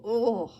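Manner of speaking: loud grunt of impact; hurt cry; pained "Oh!". A narrator's reading. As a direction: groan as if crashing into stone. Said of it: "with a painful".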